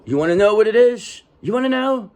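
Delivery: teasing. Real, not acted. Teasing the viewer before revealing.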